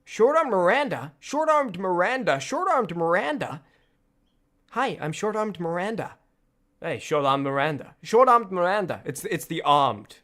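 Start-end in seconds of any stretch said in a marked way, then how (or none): 0.0-6.2 American accent practice. Shown as a demonstration. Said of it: "surprisingly difficult to say in an American accent". 6.8-7.9 American accent try. Shown as a demonstration. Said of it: "difficult to say in an American accent". 8.0-9.0 American accent try. Shown as a demonstration. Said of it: "difficult to say in an American accent".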